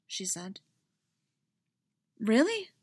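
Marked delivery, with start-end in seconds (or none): 2.2-2.7 bright surprised question with a smile; smiling. A narrator's reading. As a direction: let the smile come through. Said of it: "hear the smile in her voice".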